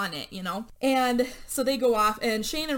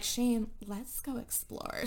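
suggestive tease; 5 dB quieter, slower than usual. Retold or imitated. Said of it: "Rachel is like".

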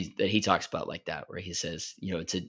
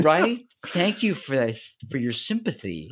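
mock grateful friend; 7 semitones higher, 4 dB louder than usual. Mocking someone taking it sincerely.

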